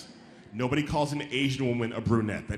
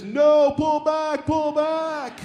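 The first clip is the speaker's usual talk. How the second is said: high, loud panicked command; shouted alarm, pitched way up; urgent yell; 12 semitones higher, 12 dB louder, much slower than usual. Acted. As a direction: yell to halt a runaway mistake. Acts brain stopping the mouth.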